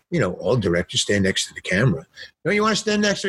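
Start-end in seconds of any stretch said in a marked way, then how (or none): 2.4-3.3 imitated cinematographer. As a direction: call across the set in a high voice. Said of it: "the cinematographer says".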